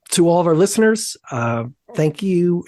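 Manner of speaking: hoarse, worn-out voice; losing voice. Real, not acted. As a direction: talk through a voice that's going. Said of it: "I'm losing my voice tonight".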